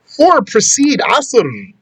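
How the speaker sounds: four said high and slowly, then a falling close; slow emphatic reading. Shown as a demonstration. Teacher reading the rule to students slowly. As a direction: read the text line out slowly, leaning on four. Rereading the text line.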